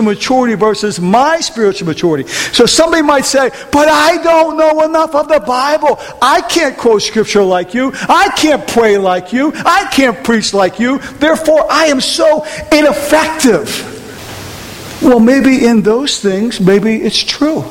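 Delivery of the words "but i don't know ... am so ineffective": higher-pitched mock excuse; doubting believer. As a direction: put on a self-doubting objector. Voices a believer's self-doubting excuses.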